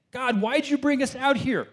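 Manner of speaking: high, complaining whine; mock whine. Israelites at bitter water whining to God, high mock whine. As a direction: whine it like a spoiled kid.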